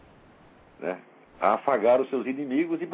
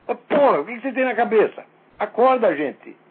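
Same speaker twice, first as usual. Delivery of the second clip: higher and much louder scolding; angry shout; 6 semitones higher, 6 dB louder than usual. Real, not acted. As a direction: shake them awake with a yell. Scolding outburst. (bronca aos gritos)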